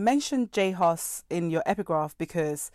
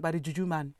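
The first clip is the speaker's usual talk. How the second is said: Nigerian accent; faster than usual. Shown as a demonstration. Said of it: "Or in Nigerian accent".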